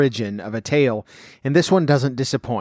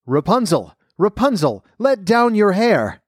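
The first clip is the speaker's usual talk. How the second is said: calling up the tower; 7 semitones higher than usual. A narrator's reading. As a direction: call her name up to the tower window, stretching it. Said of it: "called out".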